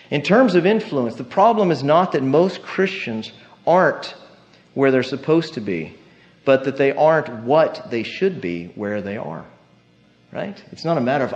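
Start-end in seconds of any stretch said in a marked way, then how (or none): 0.1-9.4 slower, more deliberate second reading; slower repeat. Shown as a demonstration. Preacher repeating a confusing quote for the church, slowed down. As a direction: lay it out again slowly so it sinks in. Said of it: "I'll repeat it again".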